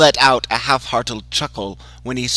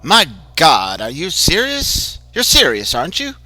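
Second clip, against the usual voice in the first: shocked disbelief; 6 semitones higher, 5 dB louder than usual. Acted. Sam shocked by the confession.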